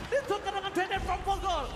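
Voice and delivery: loud, high hype call; excited shout. Real, not acted. Live cast, trade happens.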